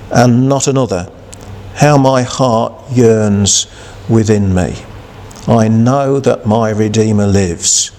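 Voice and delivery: slow, reverent reading of Job; scripture reading. Acted. Preacher reading Job to the congregation, slow and reverent. Reads Job's words of faith.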